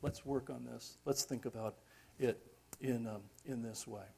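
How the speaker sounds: soft, patient encouragement; Jesus. Acted. Jesus still answering a long-time follower, gentle and patient. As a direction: quietly invite them to work it through. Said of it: "Jesus would still say".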